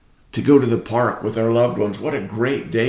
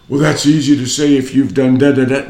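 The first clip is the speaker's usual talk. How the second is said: mock doubter, louder and rushed; skeptical objection; 3 semitones higher, 8 dB louder, faster than usual. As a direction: toss it off like a scoffing skeptic.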